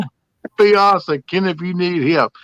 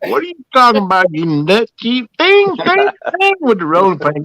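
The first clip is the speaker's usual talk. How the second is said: mock attitude; 6 semitones higher than usual. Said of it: "the attitude she'd give me".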